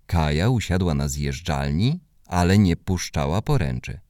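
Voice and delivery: plain reading voice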